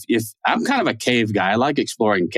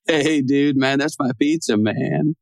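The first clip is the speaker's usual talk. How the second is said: lightly voiced laid-back stoner surfer; imitating Spicoli guarding his pizza, lightly stoner; 3 semitones higher, slower than usual. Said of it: "Spicoli from Fast Times at Ridgemont High".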